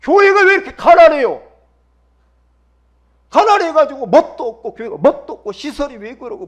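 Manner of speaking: high, loud whining protest; hammed-up shouted grievance; mock complaining. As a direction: imitate an indignant member griping at full volume. Acting out a member's complaint.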